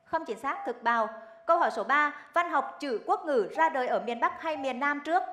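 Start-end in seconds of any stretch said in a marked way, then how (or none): 1.5-5.2 crisp quiz host read; game show host. Acted. Rapid-fire quiz round.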